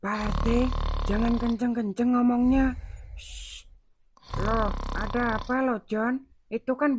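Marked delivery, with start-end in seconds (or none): 3.2-3.7 soft hushing shh. Acted. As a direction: hush him so the father stays asleep. Hushing RT near sleeping father. (mendesis pelan menyuruh diam)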